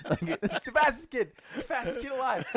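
high, laughing through the words; cracking up while talking. Real, not acted. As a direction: giggle it out in disbelief. Laughing at the fast chihuahua.

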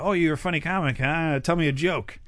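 lightly voiced teasing request, a bit high; Steve Martin. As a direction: casually put a comic on the spot, mildly. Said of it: "it's like your uncle at Thanksgiving".

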